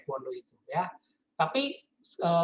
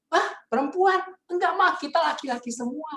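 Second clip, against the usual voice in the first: surprised innocent son; 10 semitones higher than usual. Retold or imitated.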